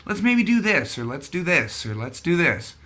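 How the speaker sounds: mildly excited retelling of an eager dad; playful imitation of an excited helper. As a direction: lightly imitate dad brimming with ideas, pitch jumping up early. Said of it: "He just would get excited".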